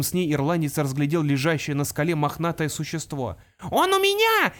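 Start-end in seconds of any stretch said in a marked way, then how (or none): 3.7-4.5 high, loud gleeful scream of a pixie; triumphant shriek. Acted. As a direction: shriek it out in victory. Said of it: "вопила опал".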